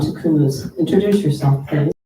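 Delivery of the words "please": ordinary talk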